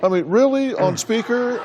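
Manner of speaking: high-pitched disbelief; openly skeptical, pitch jumping up; incredulous. Real, not acted. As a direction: question it as if it's absurd. Host mocks the speakerphone theory.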